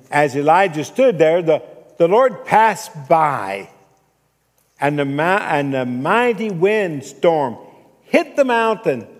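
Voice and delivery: loud, dramatic scripture telling; booming preaching. A narrator's reading. Preacher telling the congregation of Elijah and the windstorm, booming. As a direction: build up with big stretched-out words.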